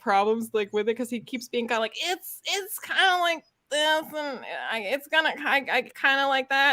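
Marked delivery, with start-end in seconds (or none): 2.0-6.7 halting, higher, noncommittal quote; unhyped, lukewarm. Retold or imitated. Imitating an author unsure about his project, lukewarm and halting. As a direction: imitate someone hesitantly half-liking it. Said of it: "he didn't sound, like, hyped".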